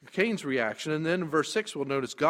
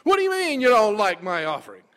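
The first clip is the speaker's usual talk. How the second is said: indignant, louder and fast; arrogant; 6 semitones higher, 9 dB louder, much faster than usual. Retold or imitated. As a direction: huff it out like an offended man. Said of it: "a very arrogant position".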